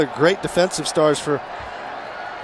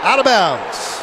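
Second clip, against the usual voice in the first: excited play call; 4 semitones higher than usual. Real, not acted. Live play call, goal line.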